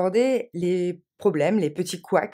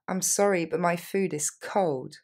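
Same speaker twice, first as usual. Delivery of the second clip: slow model. Shown as a demonstration. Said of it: "first take".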